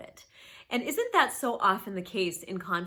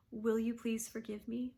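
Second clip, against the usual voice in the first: whispered softly, humbly asking; humble whisper; 5 dB quieter than usual. Shown as a demonstration. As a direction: ask forgiveness in a soft, vulnerable whisper. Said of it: "to humbly and very vulnerably ask".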